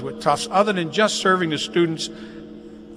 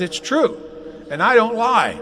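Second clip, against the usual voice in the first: higher, playful protest of honesty; insist, tongue in cheek, pitched up; mock indignant insistence; 5 semitones higher than usual. To Karen Bailey, retold playful higher-pitched insistence. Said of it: "I said".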